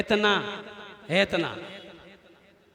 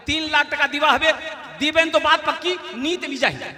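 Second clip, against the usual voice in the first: raised-pitch haggling ultimatum; firm demand; 4 semitones higher than usual. Retold or imitated. Groom's father bargaining over dowry, imitated firm demand. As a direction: lay down the final price.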